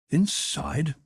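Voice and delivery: he can't believe his ears; astonished. A narrator's reading. Young man told to come inside, astonished. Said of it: "The young man was genuinely astonished".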